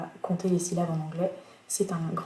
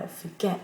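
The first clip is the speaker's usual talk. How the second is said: forget with the stress on GET, rising at the end; stress on second syllable; 4 dB quieter than usual. Shown as a demonstration. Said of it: "beaucoup de verbes en anglais vont être accentués sur la deuxième syllabe".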